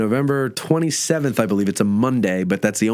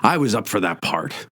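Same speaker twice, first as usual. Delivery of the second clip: Boxleitner impression; 5 semitones lower, 3 dB quieter than usual. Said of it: "he's got a really deep voice".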